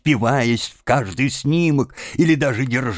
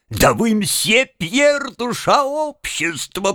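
laughing to tears; 10 semitones higher, slower than usual. Acted. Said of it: "проговорил он, плача".

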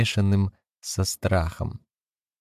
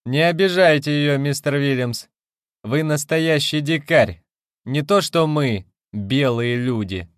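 louder, higher threatening call; threatening shout; 7 semitones higher, 4 dB louder than usual. A narrator's reading. Leonard shouts at Williams from the porch, menacing. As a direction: warn him off from a distance. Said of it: "грозно крикнул".

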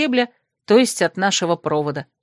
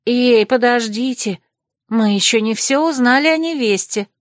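displeased grumble; 4 semitones higher than usual. Acted. Malvin protests the topic change, mildly peeved. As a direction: protest like a nosy friend. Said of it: "недовольно проворчала Мальвин".

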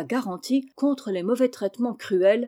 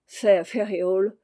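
usual speaking voice

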